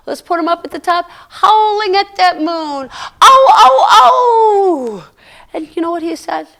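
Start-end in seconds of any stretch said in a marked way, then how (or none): 3.2-5.0 coyote yips. Acted. Coyote howling at the moon.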